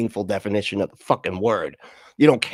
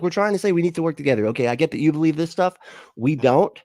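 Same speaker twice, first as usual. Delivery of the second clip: ordinary talk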